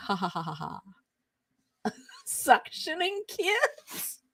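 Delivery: squeaky laughing question. Real, not acted. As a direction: laugh through the words in disbelief. Laughing disbelief at typo.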